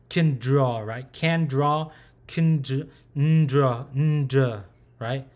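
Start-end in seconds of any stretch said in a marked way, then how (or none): 0.1-0.8 "Can draw" blended into one word; words run together. Shown as a demonstration. Teacher mixing two English words, blended pronunciation. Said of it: "can and draw together really fast". 1.1-4.6 "can draw" cut down step by step to "ndra"; blending into NDR. Shown as a demonstration. Teacher building the sound from English words, step-by-step pronunciation. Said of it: "a mix of the word can and draw together".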